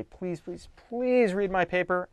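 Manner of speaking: beg, stretching the last please; pleading. Acted. Student asks anybody to read the paper, pleading. Acting out begging a reader.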